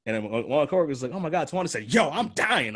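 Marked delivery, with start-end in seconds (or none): 1.1-2.8 higher, overdone coworker imitation; exaggerated mock version. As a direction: ham up the quote like a caricature. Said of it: "I didn't say it like that".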